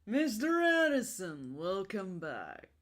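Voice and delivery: low, slow, rumbling movie villain; rumbling Agent Smith voice. Acted. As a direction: draw it out like a menacing agent. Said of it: "the rumbling voice that I do".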